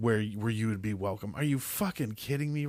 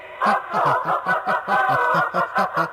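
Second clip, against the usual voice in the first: loud laugh; 7 semitones higher, 11 dB louder than usual. Real, not acted. Laughs after the shriek.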